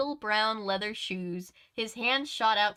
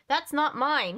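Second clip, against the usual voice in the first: surprised man, raised pitch; startled stranger at the door; red-haired man voice; 6 semitones higher, 4 dB louder, slower than usual. A narrator's reading. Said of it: "he said".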